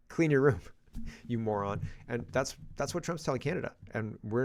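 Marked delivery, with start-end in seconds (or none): 0.0-1.8 laughing repeat. Retold or imitated. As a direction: laugh while mocking the order. Repeating mom's line, laughing.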